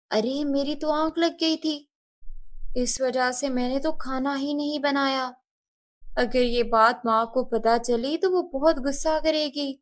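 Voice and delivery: startled and anxious, half to herself; flustered girl. Acted. Rani waking late and fearing stepmother, worried.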